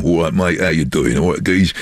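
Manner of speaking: a light London street accent, matey; Londoner accent. Shown as a demonstration. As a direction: slip lightly into a Londoner's greeting. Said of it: "just try and talk like the Londoner".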